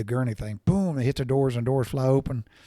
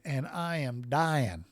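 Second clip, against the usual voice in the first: mock dying; 4 dB quieter, much slower than usual. Complaining to the hospital.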